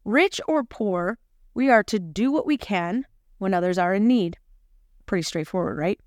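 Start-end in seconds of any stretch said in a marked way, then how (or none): 0.0-4.4 slow emphatic reading. Shown as a demonstration. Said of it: "One more time".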